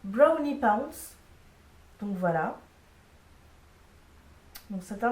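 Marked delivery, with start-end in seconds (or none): 0.0-1.1 slow, showy English accent on "Brownie Pounce"; put-on English accent, stretched out. Shown as a demonstration. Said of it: "Je la fais avec l'accent anglais ou pas".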